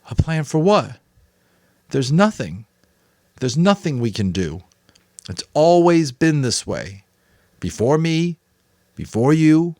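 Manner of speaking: put-on a boy near tears, crying out; upset boy, high and raw; Jonas, anguished. A narrator's reading. Jonas in despair.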